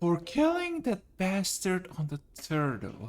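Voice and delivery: hushed, close, leaned-in aside. Voicing a character who leans in and ushers you along: a bit quieter. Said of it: "goes in a bit quieter again".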